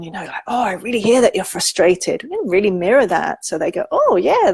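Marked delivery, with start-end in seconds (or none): 0.5-2.2 lightly mirrored frustration in sympathy; demonstrating a touch of shared frustration; mirroring frustration. Shown as a demonstration. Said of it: "when I did the frustration". 3.9-4.5 high, swooping 'oh yeah' of recognition; acted dawning relief at being understood. Voicing a child feeling understood.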